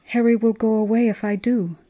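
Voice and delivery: put-on a small girl worried about losing her friend; plaintive child. Little Chris telling her mother about Harry, a touch of childish worry.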